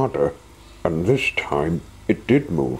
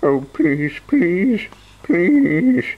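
begging, building; 8 semitones higher than usual. Acted. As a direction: beg harder each please. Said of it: "he begged".

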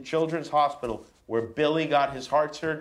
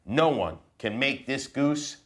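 put-on reading to children. Dad reading a picture book to his kids, mock serious. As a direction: read it solemn and serious to the kids.

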